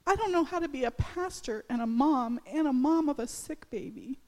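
retold tearful prayer. Pastor retelling crying at the altar to God, pleading tearfully. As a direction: replay the desperate prayer as if close to tears. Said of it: "crying, saying".

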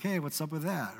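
soft, offhand mock complaint; mock indignant aside. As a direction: toss it off like a wounded friend. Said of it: "You'd probably be like".

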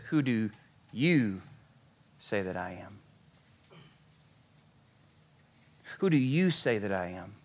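low and hushed, with weighty pauses; acted-out solemn, intimate asking; quiet, searching question. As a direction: ask it softly and let it land. Jesus turns question on disciples.

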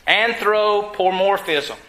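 slow, deliberate anthropomorphism, every syllable spaced out; said real slow. Shown as a demonstration. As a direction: spell out anthropomorphism slowly for the congregation. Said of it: "I gotta say this real slow".

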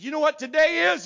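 high, very loud leading question; triumphant shouted challenge. Retold or imitated. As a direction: shout it like a gotcha. Challenging the man on the call.

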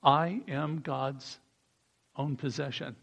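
"I am God's own possession" quiet, slow, dropping away; hushed declaration; quiet lead line for the group; soft slow model. Shown as a demonstration. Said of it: "I think we should say".

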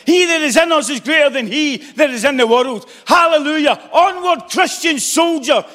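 fervent, rising sermon cadence; rally the church to wake up; full-force preaching. Acted.

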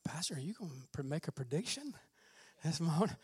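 hushed, quick whisper of a doubter; whispered quote. Retold or imitated. Congregation member asking the pastor about predictions, whispered. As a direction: whisper it like a sly aside. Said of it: "some of you are like".

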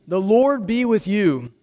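normal talking voice

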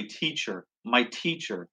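soft, tender cry of recognition; quiet affectionate call to her teacher. Acted. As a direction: say it softly, full of love. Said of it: "She cries out in an affectionate way".

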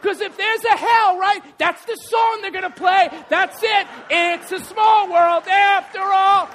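loud shouted, slowed song title; comic shout, high and drawn out; mock hellish song. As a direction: belt the last line out slowly like a curse. Mocking the theme park song.

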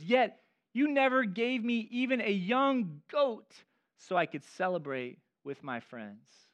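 put-on a touch of an indignant older son; resentful complaint. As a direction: accuse your father of unfairness. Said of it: "Can you hear it in his voice?".

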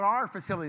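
"our" leaned on a little harder; stress on "our". Real, not acted. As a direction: give "our" extra emphasis. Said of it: "I say our, I emphasize that".

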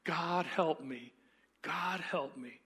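slow, fading, broken plea; a broken man begging heaven; whimpering ghost. Acted. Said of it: "but ended whimpering".

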